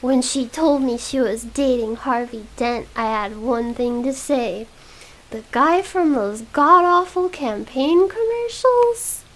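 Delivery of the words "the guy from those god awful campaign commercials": higher, louder, mocking society drawl. Wayne mocks Rachel's new boyfriend in a drawl. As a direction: sneer it out like a bored rich boy.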